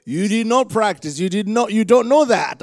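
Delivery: high, loud mock astonishment; amazed. Preacher astonished by what came out of him, amazed. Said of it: "sometimes I'm like".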